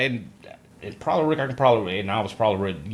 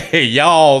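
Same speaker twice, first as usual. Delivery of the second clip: mimicked puzzlement; 3 semitones higher, 11 dB louder than usual. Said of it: "everything is like".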